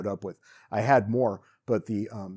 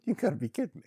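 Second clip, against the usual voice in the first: laughing in disbelief, voice up; laugh, then can't believe it; 5 semitones higher, faster than usual. Real, not acted. Boy runs off with money.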